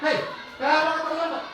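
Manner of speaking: teacher barks at a latecomer to punish. Acted. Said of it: "kalau saya penghukum".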